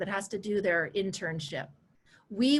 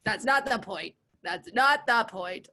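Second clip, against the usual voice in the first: mock-indignant shut up; playful retort; 4 dB louder, slower than usual. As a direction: brush it off teasingly. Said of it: "I say".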